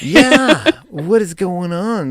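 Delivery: laughing high disbelief. Real, not acted. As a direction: laugh through the words. Laughing at depressing stories.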